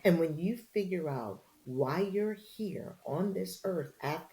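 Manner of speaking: slow, soft, sincere counsel; a lightly voiced Oprah sharing her secret; calm retold wisdom. Oprah telling the reporter her purpose, slow and soft.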